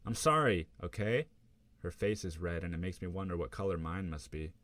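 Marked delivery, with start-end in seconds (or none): 0.1-1.3 louder, higher exasperated sorry; loud defensive apology. Acted. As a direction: snap back an apology through tears. Girlfriend crying, defensive.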